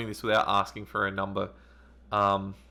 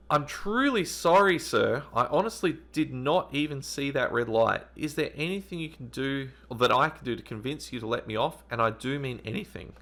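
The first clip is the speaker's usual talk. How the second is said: put-on pleading girl voice; 4 semitones higher than usual. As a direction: beg sweetly to get let off. Voices the girl's plea, slowly.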